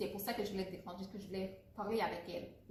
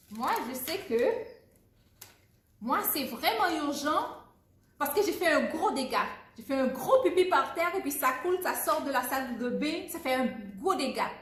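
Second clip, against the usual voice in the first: put-on higher, louder, frantic kid's plea; urgent child; 5 semitones higher, 7 dB louder than usual. Playing the child telling mom about the accident, frantic. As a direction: burst out like a child who made a mess.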